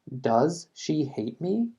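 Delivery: very slow with a rise on me; very slow classroom model, rising on me; slow yes-no question. Shown as a demonstration. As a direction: drawl it out, rising at the end. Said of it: "Lo mismo acá".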